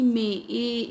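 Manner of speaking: मे and ए said as clear long "ए" vowel sounds; sound demo. Shown as a demonstration. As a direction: model the long ए vowel distinctly. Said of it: "ए की sound आ रही है". (लंबी ए की आवाज़ साफ़ बोलकर दिखाना)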